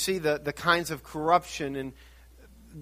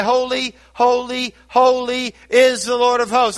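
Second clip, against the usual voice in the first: louder, raised cry of holy, holy, holy; crying out praise; 6 semitones higher, 6 dB louder than usual. Pretend. Preacher imagines crying praise to God, loud and exalted. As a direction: call it out in awe. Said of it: "day and night I would cry".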